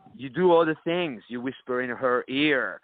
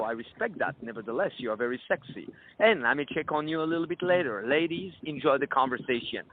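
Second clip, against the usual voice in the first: smooth confident charm. Shown as a demonstration. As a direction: calmly brush off her refusal with charm. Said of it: "Then you go".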